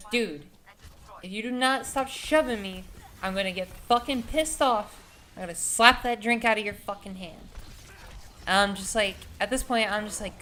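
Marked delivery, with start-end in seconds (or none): 0.1-7.5 retold tough-guy threat, mildly raised; trying to be gangsta. Storyteller warning the drunk shover, mock gangsta threat. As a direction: act out a warning to back off. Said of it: "I'm trying to be gangsta".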